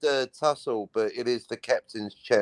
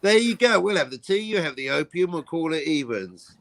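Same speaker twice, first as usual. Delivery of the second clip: mock bargaining; 5 semitones higher than usual. Acting out an opium-for-tea bargain.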